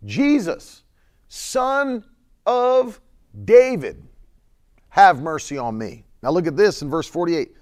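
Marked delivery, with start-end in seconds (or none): 0.0-6.0 high and louder plea; crying out. Retold or imitated. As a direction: cry out over the crowd. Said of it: "cried out with a loud voice".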